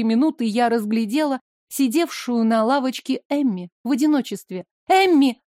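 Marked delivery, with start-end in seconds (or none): 4.9-5.4 loud call across the alley, higher. A narrator's reading. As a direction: shout her name to get her attention. Sofia spots Emmy on bench. (громко окликает подругу)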